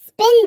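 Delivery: स्पिन with only a weak puff on the P; lightly released P in स्पिन. Shown as a demonstration. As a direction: say स्पिन, little breath escaping after the P. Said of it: "तो वीक puff पड़ता है".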